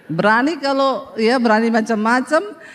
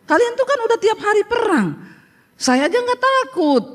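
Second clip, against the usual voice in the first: teasing; 10 semitones higher than usual. Retold or imitated. Teasing the Israeli tour guide.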